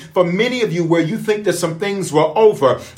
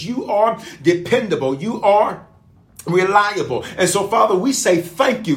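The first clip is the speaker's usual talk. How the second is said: earnest spoken prayer to God. Acted. Pastor praying aloud for his online congregation, earnest prayer. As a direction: pray it out sincerely, slightly raised.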